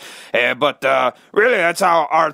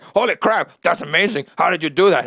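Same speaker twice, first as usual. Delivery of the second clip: amazed; 4 semitones higher than usual. Retold or imitated. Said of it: "people would be like".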